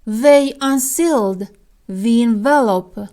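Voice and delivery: very slow, each word spaced for learners; slow, careful teacher reading; slow model sentence. Shown as a demonstration. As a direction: read it out slowly like a teacher. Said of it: "مثال".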